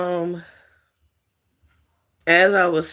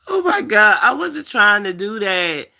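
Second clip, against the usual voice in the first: high, weepy and insistent; pleading through real tears; tearful apology; 6 semitones higher, 3 dB louder than usual. Real, not acted. Telling her viewers she didn't mean it, weepy. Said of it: "bust out crying".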